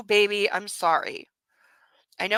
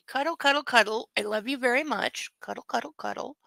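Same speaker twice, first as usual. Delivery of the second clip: soft cuddly murmur; tender; 4 dB quieter than usual. Real, not acted. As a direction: croon to the dog as you hug. Cuddling the puppy.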